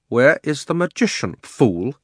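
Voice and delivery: imperious demand. A narrator's reading. Witch demands angrily.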